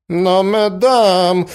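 high, loud, drawn-out protest; crying out. A narrator's reading. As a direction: exclaim in flustered protest. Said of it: "закричал князь". (вскричать, протестуя)

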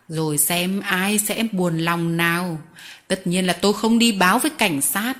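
a touch of sly, sneering threat; softened mockery. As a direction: sweeten the voice while threatening. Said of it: "dịu giọng mỉa mai".

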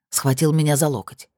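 ordinary delivery

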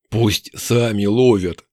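slow, low orc voice; orc brute. Acted. Orc refusing to share, slow and low. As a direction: drag it out low and stubborn.

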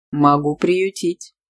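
slow offer with a smile; slow, lightly smiling man's voice. A narrator's reading. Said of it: "улыбаясь, сказал мужчина".

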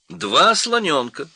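high, loud, slow proclamation; announcing parrot. A narrator's reading. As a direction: declare it slowly, loud and high. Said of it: "объявил попугай".

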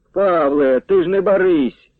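calling out. A narrator's reading. Matviy calls after Pavlo not to dawdle. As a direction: call across the square, rising high. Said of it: "гукнув Матвій".

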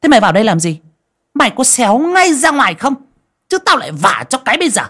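put-on high, loud shrew yelling at a boy; loud high angry scolding, quick at the end; scolding harshly. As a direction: chase the boy out with threats. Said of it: "nạt nộ".

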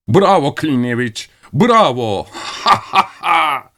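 high mock cheer breaking into a slow shouted laugh. Crowd cheers Klinevich, laughing.

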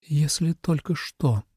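cold, slow, quiet demand; icy tone. A narrator's reading. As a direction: freeze him out with each word. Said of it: "ледяным тоном уточнила Суэлань". (ледяным тоном, медленно и тихо)

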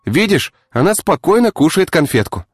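high coaxing voice; calm her like a child; soothing. Acted. Artyom calming the tied woman, high coaxing.

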